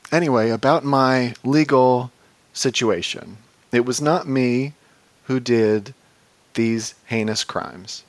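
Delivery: slow, halting letter read-out; deadpan comic recital of a letter; mock letter reading. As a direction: read it in short phrases with long pauses.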